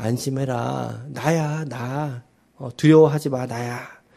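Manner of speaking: mock steady, peaceful, soothing tone. Sermon retelling words spoken to the disciples, acted-out calm tone. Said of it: "차분한 어조로".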